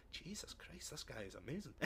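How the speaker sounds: breathless whispered amazement; imitating a viewer awed by the villain. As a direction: whisper it in stunned awe.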